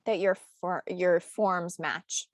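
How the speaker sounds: slowed by hiccups; holding back hiccups between words; suppressing hiccups. Real, not acted. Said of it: "I have the hiccups right now".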